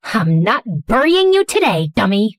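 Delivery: understated tough snap; a curt, mildly gruff warning; snapped. Acted. Dee to William during the chase, understated snap. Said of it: "She slapped my thigh twice and snapped".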